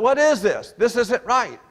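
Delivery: mock outraged Gideon, laughing; incredulous protest. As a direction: scoff at the unfairness with a laugh.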